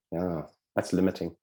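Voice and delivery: low, quiet, unimpressed aside; bored. Acted. Subconscious hearing the ego's plans, bored. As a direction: sound mildly bored and dismissive. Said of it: "Subconscious is very bored with that".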